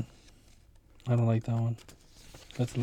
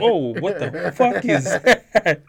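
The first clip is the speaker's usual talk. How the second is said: laughing disbelief; 4 semitones higher, 6 dB louder, much slower than usual. Retold or imitated. Retold shock, laughing.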